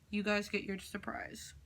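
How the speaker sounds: unvoiced soft whisper. Real, not acted. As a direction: whisper the reveal. Whispered surprise reveal.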